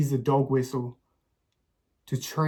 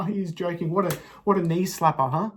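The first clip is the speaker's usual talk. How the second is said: sarcastic mockery; 4 semitones higher, 4 dB louder than usual. Sarcastic mock at audience laughter.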